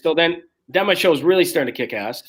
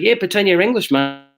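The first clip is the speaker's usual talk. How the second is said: a light put-on English accent, a touch higher; mock English accent; 7 semitones higher than usual. Friend advising him to fake English, mock English accent. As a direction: imitate a friend faking English. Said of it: "He's like".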